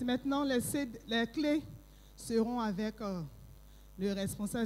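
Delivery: softly, out of breath after dancing; gasping for air between words. Real, not acted. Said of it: "je suis essoufflée".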